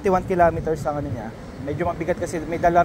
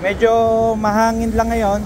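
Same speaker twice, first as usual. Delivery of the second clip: speaking over wind; 2 semitones higher than usual. Real, not acted. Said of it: "sana rinig pa rin yung boses ko".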